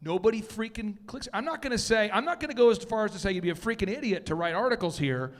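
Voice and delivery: lightly mimicked blustering candidate; emphatic, repetitive campaign-speech swagger; Donald Trump. Presenter parodying a politician who won't say it, lightly mimicked bluster. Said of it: "This is Trump-tastic".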